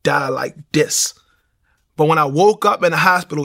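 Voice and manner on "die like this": retold prayer. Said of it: "I remember me saying".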